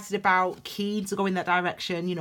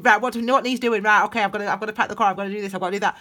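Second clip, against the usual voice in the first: flustered new parent; 3 semitones higher, 6 dB louder, much faster than usual. Pretend. New parent rushing around.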